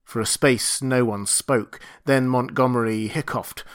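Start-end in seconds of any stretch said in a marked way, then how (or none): none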